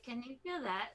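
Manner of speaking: giggly question, lightly tipsy; tipsy giggling. Acted. Tipsy friend touching someone's nose, giggly. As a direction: say it through a small drunken laugh. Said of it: "she's a little giggly".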